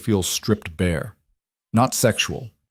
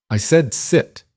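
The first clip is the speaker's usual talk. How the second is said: higher, cold order, not raised in volume; quiet command; 6 semitones higher, slower than usual. Acted. Crime boss ordering Lena to sit, cold authority. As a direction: lay it down as an order that expects obedience. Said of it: "The words didn't get louder, but something in them changed".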